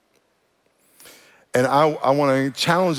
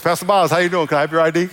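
friendly TSA agent; 3 semitones higher, 4 dB louder, faster than usual. Retold or imitated. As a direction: play the agent asking nicely. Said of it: "He goes".

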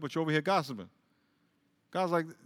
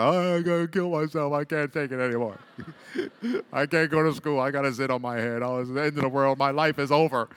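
mock melodramatic teenager; hammed-up self-pity; whiny teen; 3 semitones lower than usual. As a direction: whine like the world is ending. Mock teen despair quote.

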